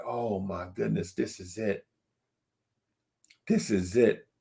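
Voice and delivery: soft, awed murmur; breathless hush at the big moment; hushed awe. Retold or imitated. Awed player before the game.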